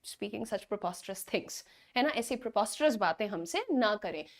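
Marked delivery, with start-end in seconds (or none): 0.0-1.7 drawn-out, softer demo line; slow model sentence. Shown as a demonstration. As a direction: say it slowly for students to copy. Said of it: "उसे बोल दीजिएगा". (धीमा, नरम उदाहरण वाक्य)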